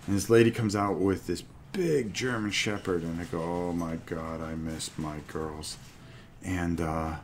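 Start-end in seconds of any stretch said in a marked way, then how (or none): 3.4-5.8 put-on whiny man child. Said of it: "I sound like a big baby".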